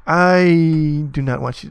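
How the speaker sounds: loud, slow, each word pressed; firm scolding. Real, not acted. Coder scolding the program, loud and firm. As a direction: tell it off word by word.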